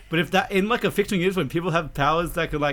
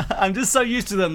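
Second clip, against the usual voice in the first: laughing; 3 semitones higher, 3 dB louder than usual. Real, not acted. Laughing at accent joke.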